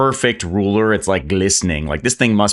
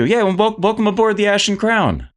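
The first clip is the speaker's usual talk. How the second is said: eager quartermaster; 13 semitones higher than usual. Acted. Quartermaster greets the newcomer.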